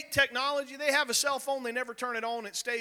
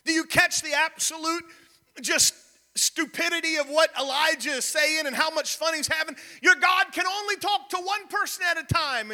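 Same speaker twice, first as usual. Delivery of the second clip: emphatic preaching; 5 semitones higher than usual. Real, not acted. Preacher drives home the mockery.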